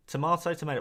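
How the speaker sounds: "Tomato" as to-mah-to, then to-may-to; two pronunciations contrasted. Shown as a demonstration. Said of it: "What's dangerous about accents?".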